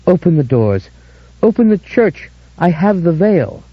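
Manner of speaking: high frantic screaming. Acted. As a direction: scream at the doors. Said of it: "she stood screaming".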